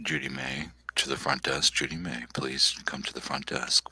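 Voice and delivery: flat intercom page, quiet and low; flat echoey PA page. Pretend. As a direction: page her like a store loudspeaker. Mock store PA announcement.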